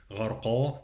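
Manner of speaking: heavy, back qaf and dark final vowel in "غرقا"; emphatic qaf. Shown as a demonstration. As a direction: say "غرقا" with a full-mouthed qaf. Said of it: "القاف".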